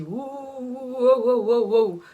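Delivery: mock alarm as the girlfriend; alarmed wow. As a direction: she sees it's going badly, alarmed. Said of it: "elle a tilté, elle s'est dit".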